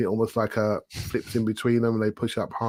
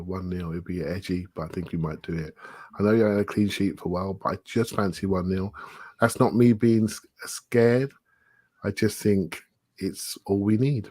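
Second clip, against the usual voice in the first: calm; 2 semitones lower than usual. Real, not acted. Fan predicting a narrow win to co-hosts, calm. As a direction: give the score forecast calmly, without getting worked up. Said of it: "you're sounding so calm".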